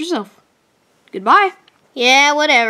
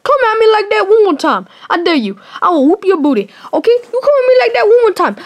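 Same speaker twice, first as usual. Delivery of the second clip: put-on African American accent; 3 semitones higher, faster than usual. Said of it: "I don't usually do my black voice".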